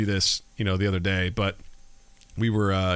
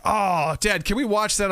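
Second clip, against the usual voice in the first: put-on pleading kid; 9 semitones higher than usual. Acting daughter pleading to watch.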